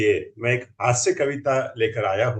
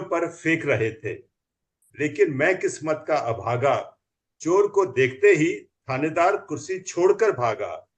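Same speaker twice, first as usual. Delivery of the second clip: comic poem recital; 2 semitones higher than usual. Acted.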